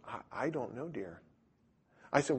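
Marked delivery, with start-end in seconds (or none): 0.1-1.2 timid visitor. Retold or imitated. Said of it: "She goes".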